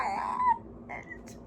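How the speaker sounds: a high, playful squeal of betrayal; squealing mock outrage. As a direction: shriek it in fake outrage. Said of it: "And I was like".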